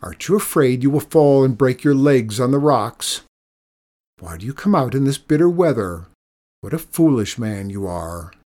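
loud scornful scolding; taunting. Acted. Old woman mocking the old man's foolishness, scornful. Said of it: "she taunted".

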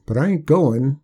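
put-on a stubborn backwoods old-timer; old country man. Old Hark voiced by narrator.

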